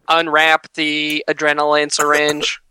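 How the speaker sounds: slow whispered machine voice; robot voice. Retold or imitated. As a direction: speak like a talking device. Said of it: "a robot voice".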